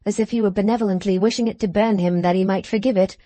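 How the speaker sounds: ordinary delivery, nothing marked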